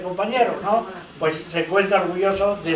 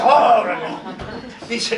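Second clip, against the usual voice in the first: drawn-out retold cry of protest; mock dismay; 3 semitones higher, slower than usual. Editor answering the threat of mobilized professors, mock dismay. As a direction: act out a flustered backing-down, half laughing.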